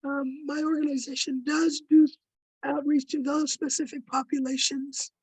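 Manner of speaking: losing her voice, hoarse and strained. Real, not acted. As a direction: speak through a worn-out hoarse voice. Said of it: "I'm sorry, I'm losing my voice".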